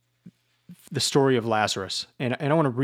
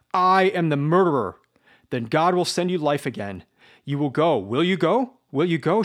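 higher, louder pleading, rising on will you go; burning, insistent questions; fervent plea; 5 semitones higher, 5 dB louder than usual. Acted. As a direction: beg him to say yes. Sonia pleads, eyes full of fire.

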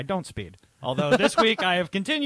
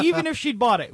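repeated angry point; 9 semitones higher, 3 dB louder than usual. Real, not acted.

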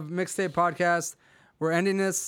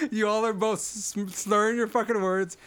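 laughing; 3 semitones higher than usual. Real, not acted. Laughing while speaking.

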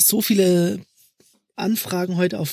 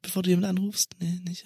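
whispering; 7 dB quieter, faster than usual. Real, not acted. Unvoiced aside.

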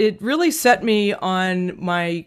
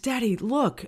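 put-on soft, higher-pitched child's murmur; retold whisper; 4 semitones higher, 6 dB quieter than usual. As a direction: imitate a child confiding in dad's ear. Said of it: "I whispered in his ear".

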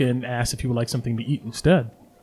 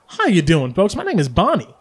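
cheerful barmaid; 4 semitones higher than usual. Acted. DM voices the barkeep Bonnie.

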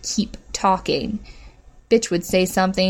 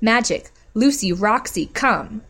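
shouted call; 2 semitones higher than usual. A narrator's reading. Bitch shouting for her dogs, calling. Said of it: "then shouted".

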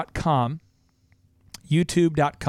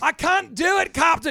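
much higher, strained cry of a panicking engineer; panicky Scotty; 13 semitones higher than usual. Retold or imitated. Scotty protesting to the captain, high frantic voice. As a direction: whine it like he's straining to lift something heavy. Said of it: "Scotty was always freaking out. He's like".

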